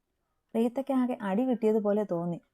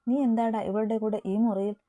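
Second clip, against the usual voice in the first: louder, accusing demand; angrily; 2 semitones higher, 4 dB louder than usual. Acted. Reetha angrily confronting Eby in the room. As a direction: confront him, indignant. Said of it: "Reetha ദേഷ്യത്തിൽ ചോദിച്ചു".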